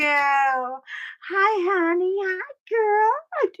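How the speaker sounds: high, effusive hellos; delighted greeting. Real, not acted. Host welcoming May and Critterfur as they arrive, delighted.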